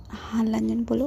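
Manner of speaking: a tender whisper to a hurt friend. Acted. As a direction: breathe it gently, barely voiced. Tender bedside talk. (धीमी फुसफुसाहट)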